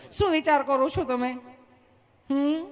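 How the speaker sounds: high, sweet nurse voice; mock female nurse, unhurried and kindly; easy-mannered nurse. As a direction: ask gently in a put-on high voice. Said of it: "તમે કેટલું પ્રેમથી પૂછો છો".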